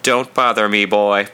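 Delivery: flat, cold monotone, keep him away; a dull monotone that says back off. Acted. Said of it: "my voice in a monotone that plainly said".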